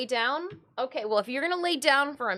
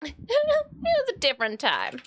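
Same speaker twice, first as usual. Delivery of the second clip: laughing, higher; 8 semitones higher, 4 dB louder than usual. Real, not acted. Remembering nineties rules, laughing. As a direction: chuckle through it.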